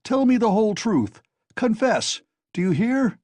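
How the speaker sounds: high, loud furious shout; angry shouting. A narrator's reading. Razumihin shouts at Raskolnikov, furious to find him out. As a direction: yell at him in real anger. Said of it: "he shouted at the top of his voice".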